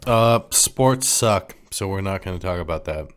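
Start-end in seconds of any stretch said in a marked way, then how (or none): 0.1-1.6 slow mock declaration. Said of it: "deliberate slow declaration".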